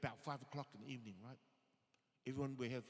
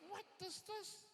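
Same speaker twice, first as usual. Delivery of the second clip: high, softer bewildered question; baffled disbelief; 7 dB quieter than usual. Acted. Young boy watching a friend's odd punishment, baffled. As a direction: squeak it out softly in mock bewilderment.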